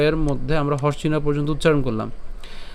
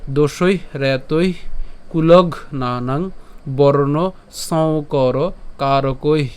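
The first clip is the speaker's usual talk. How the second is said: slow, measured Sanskrit recitation; verse recitation; much slower than usual. Shown as a demonstration. Teacher introduces today's shloka to learners, slow recitation. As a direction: recite it slowly, phrase by phrase with pauses. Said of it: "প্রথম লাইনটা আমি আরেকবার বলি".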